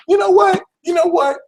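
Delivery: high, loud mock-exasperated cry; sudden shout. Reader snapping at Sagittarius, shouting in mock exasperation. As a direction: blurt it out like you've snapped.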